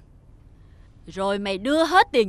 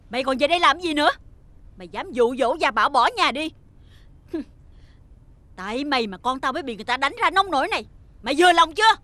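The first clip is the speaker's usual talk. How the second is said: angry scolding. Acted. Stepmother scolds boy.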